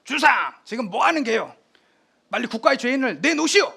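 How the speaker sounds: 크게 꾸짖는 왕의 목소리; 군사를 거느린 왕이 아들을 꾸짖듯 외친다; 호통치는 태종. Retold or imitated. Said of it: "태종이 와서". (세종을 다그치는 태종의 큰 호통)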